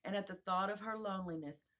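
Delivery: ordinary delivery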